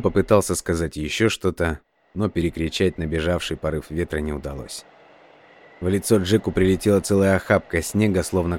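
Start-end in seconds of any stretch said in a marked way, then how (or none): none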